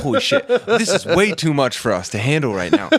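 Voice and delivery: high-pitched, retold panic with laughter around it; overwhelmed outburst, played for comedy; freaking out. Tripping man faced with an injured woman, freaking out. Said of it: "I'm, like, freaking out".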